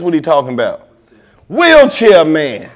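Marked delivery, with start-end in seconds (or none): 1.5-2.7 slow, loud nickname through laughter; laughing punchline. Real, not acted. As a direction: savor the nickname while cracking up.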